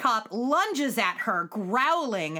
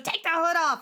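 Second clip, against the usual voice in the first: impatient order; 7 semitones higher, 3 dB louder than usual. Retold or imitated. Voices a character's sharp order.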